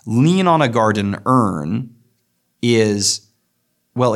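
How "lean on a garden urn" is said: "on" lifted with a rise; stress on on. Shown as a demonstration. Lecturer testing where the stress falls, leaning on "on". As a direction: lean into the word "on". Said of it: "Is the stress on lean or on on".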